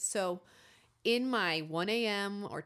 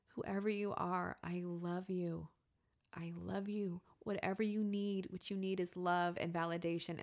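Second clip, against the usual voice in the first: tender reassurance. Retold or imitated. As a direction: soothe it gently, without arguing. Soothes the unknown inner voice.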